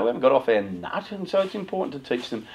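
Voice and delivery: ordinary talk, nothing marked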